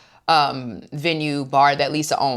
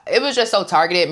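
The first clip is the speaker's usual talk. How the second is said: high, loud, incredulous protest; who hasn't done this, come on; rising outrage on her behalf; exasperated disbelief; 7 semitones higher, 5 dB louder than usual. Real, not acted. Indignant rant about drunk trip.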